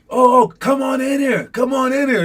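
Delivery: high, loud taunting challenge; imitated screaming bluff. Trapped hero dares the shooters to enter, imitated screaming. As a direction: holler like a cornered movie hero bluffing. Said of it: "He's just screaming".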